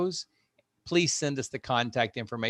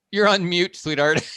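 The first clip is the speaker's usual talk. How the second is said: laughing tease; 6 semitones higher, 5 dB louder than usual. Real, not acted. Teasing student talking on mute.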